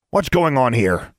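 slow, loud official challenge; stern guard. Acted. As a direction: demand answers like a guard. Auror interrupts with wand out.

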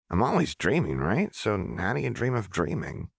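put-on young girl voice. Narrator voicing Jinx, insistent young girl. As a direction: voice the girl insisting she knows her.

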